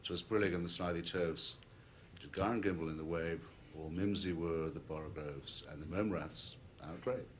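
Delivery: verse recitation winding down; closing poem refrain. Acted. Closing the nonsense poem for the audience, subdued refrain. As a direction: recite it as an ending, easing off gradually.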